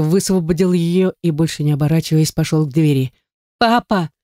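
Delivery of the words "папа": Папа called high after him, choking on tears; crying out through tears. A narrator's reading. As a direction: call after the father as he walks out. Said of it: "выкрикнула я ему вслед, давясь слезами".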